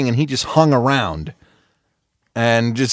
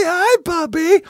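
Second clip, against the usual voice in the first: high, cooing puppy talk; baby talk to a dog; slower than usual. Retold or imitated. Neighbor greeting the dog in high baby talk. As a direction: coo at the dog like it's a baby. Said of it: "And they say".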